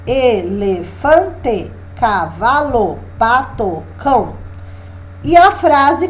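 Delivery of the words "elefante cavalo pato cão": elefante stretched very slowly, each syllable drawn out; slow drawn-out words. Shown as a demonstration. Teacher slowly modelling the animal word list, drawn out. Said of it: "Então".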